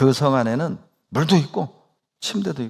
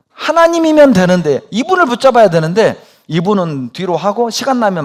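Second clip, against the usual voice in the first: high, loud impassioned plea; preaching at full force; 8 semitones higher, 9 dB louder than usual. Real, not acted. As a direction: cry it out to the whole congregation. Pastor pleads with congregation.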